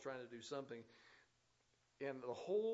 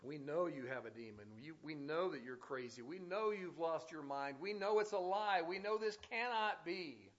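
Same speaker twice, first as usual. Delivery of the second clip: mocking world; 4 dB louder than usual. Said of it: "The world is still doing that".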